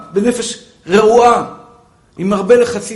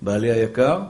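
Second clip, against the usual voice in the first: much softer, calm brush-off; gentle dismissal; 12 semitones lower, 9 dB quieter than usual. Retold or imitated. Wife gently brushing off her husband's gossip. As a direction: send him off kindly.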